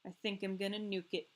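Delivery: lightly voiced body part, dramatic; voicing her tonsils. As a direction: play the tonsils as a paranoid sentry. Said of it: "They're like".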